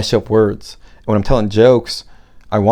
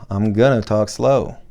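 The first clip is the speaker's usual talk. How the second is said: slow on purpose. Shown as a demonstration.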